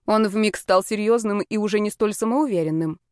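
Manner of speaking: ordinary delivery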